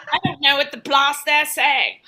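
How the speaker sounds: lightly mocked baffled English; a hint of exasperated English bluster; English accent. England baffled by the Scots, mock English accent. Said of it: "England is trying to give".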